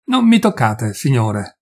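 forester warning the narrator off; shouted warning. Acted. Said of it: "mi gridò".

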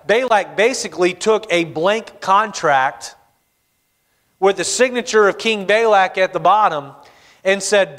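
ordinary talk, nothing marked

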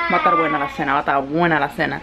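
put-on low, playful Puerto Rican accent; Puerto Rican-style accent. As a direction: lightly put on a Caribbean telenovela accent. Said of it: "Ahorita que hice el acento de".

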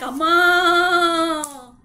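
cow moo. Acted. Cow calls out.

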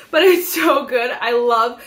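laughing through the words; giggly and gushing. Real, not acted. Gushing over the lip oil.

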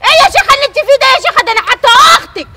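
a sister crying out her resentment; tearful outburst. Acted. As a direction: vent years of jealousy through tears. Jealous sister bursts out crying.

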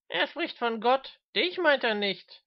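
high, slow, spiteful teasing; malicious clowning. A narrator's reading. Mister Smith needling the old man, slow spiteful teasing. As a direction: draw it out to needle him. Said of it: "blödelte Mister Smith boshaft".

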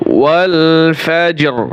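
ওয়াল ফাজর with the final র clearly rolled; clear r sound. Shown as a demonstration. Teacher showing the র at the end of ফাজর. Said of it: "র উচ্চারণ করতে হবে".

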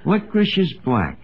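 slow, sing-song verse reading; reading a valentine poem. Acted. Archie reading the valentine aloud, slow and sing-song. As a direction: read the rhyme out slowly. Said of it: "Let's see here. It's a poem".

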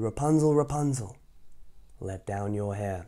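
witch calling. Acted. Witch calling up to Rapunzel in the tower. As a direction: call up the tower. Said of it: "she called".

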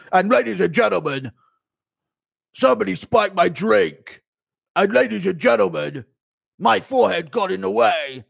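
impression of a YouTuber making excuses. YouTuber making excuses in his next video, mock-announcing impression. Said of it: "a YouTuber making excuses in his next YouTube video impression".

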